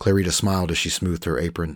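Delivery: ordinary delivery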